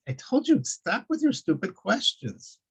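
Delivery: high, slowed, fed-up snapping; exasperated snake. Acted. Second snake fed up with his friend's questions, exasperated.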